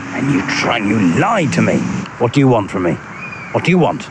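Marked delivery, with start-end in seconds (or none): 2.2-4.1 earnest, pleading question; earnest plea. Acted. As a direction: ask it as if truly cornered. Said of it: "'cause I said that rather earnestly".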